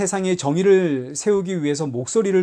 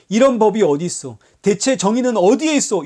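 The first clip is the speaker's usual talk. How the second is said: loud, protesting outcry; imitating an outraged protest at being beaten; mock indignant shout; 4 semitones higher, 4 dB louder than usual. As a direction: demand justice in mock outrage. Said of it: "소리에 소리를 질렀나요?".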